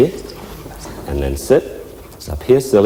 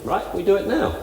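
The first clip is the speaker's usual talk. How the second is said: keen dog voice; 11 semitones higher, 5 dB quieter than usual. Pretend. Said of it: "is all keen".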